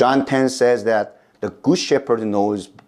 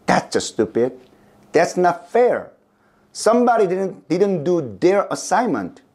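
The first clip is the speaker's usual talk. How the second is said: put-on children exclaiming; 7 semitones higher than usual. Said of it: "The children exclaimed".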